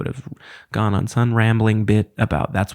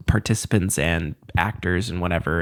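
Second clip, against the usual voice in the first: ordinary delivery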